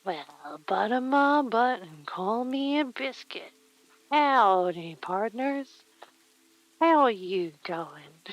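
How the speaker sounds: playful drawn-out cowboy drawl; mock cowboy greeting with swooping pitch. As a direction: put on a hammed-up cowboy twang. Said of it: "what if I do a cowboy voice".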